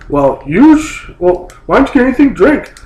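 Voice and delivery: mock her snotty tone up high; snippy waitress. Waitress quoted with attitude.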